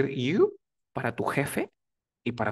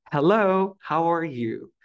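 tag; 4 semitones higher, 5 dB louder, slower than usual. Acted. Greets a whole classroom.

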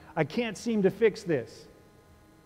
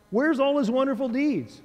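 raised, louder exasperated questioning; exasperated complaint; 6 semitones higher, 4 dB louder than usual. Retold or imitated. Gideon protesting to the angel, exasperated and loud. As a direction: throw the complaint back at heaven. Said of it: "listen to him".

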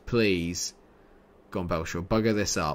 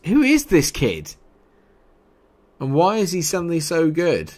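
loud, high, incredulous questions; raised-voice astonishment; exasperated disbelief; 7 semitones higher, 6 dB louder than usual. Real, not acted. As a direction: demand an answer in amazement. Amazed at a player.

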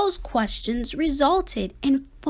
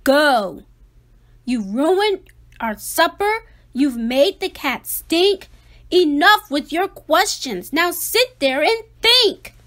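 louder scolding; stern father; 3 semitones higher, 6 dB louder than usual. Acted. Father scolding Ada for the stink, louder and stern. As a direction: scold her and send her off. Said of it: "Her father said".

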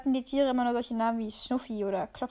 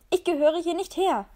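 higher, louder outburst; angry protest; 5 semitones higher, 6 dB louder than usual. Acted. The cat protests to the dog, higher and louder. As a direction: burst out in protest.

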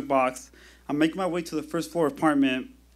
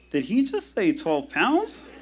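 incredulous thought; 4 semitones higher, slower than usual. Retold or imitated. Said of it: "think to myself".

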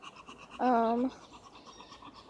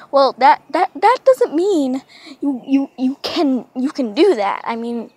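mock scolding owner; 9 dB louder than usual. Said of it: "owner scolding the cat".

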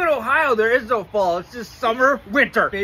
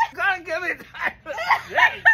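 shouted protest; 8 semitones higher than usual. Real, not acted.

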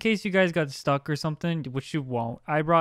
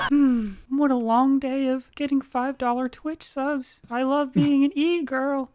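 put-on high cute anime girl; 5 semitones higher than usual. Playing an e-girl.

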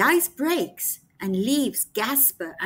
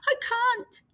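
mild fearful cry; 10 semitones higher than usual. Acted. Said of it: "he cried".

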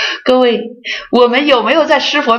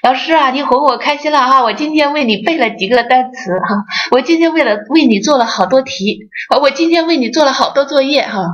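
put-on higher, childish boasting pupil voice; coaxed pupil; 5 semitones higher than usual. Pupil boasting to the teacher who coaxes him, higher and childish. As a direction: lightly play a pupil fishing for praise. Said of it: "他认为学习就是为老师学的".

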